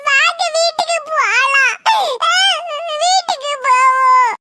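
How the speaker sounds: high, slow bawling with stretched words; crying child. Acted. Child begging to go home from the competition, bawling. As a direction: wail and plead through the sobs. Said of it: "நீ இப்படி அழுதுட்டு இருந்தா".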